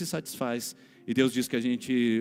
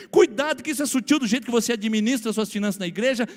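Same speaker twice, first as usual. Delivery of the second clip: each "cuidado" rising louder and higher; building preached warning; 8 semitones higher, 6 dB louder than usual. Acted. Pastor warns the congregation, building in force. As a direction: pile up the warnings to the church.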